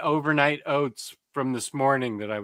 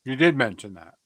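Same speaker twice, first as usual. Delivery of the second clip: talking while chewing; mouth full; 4 semitones lower than usual. Real, not acted. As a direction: speak through a mouthful of oats. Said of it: "I didn't mean to talk with my mouth full".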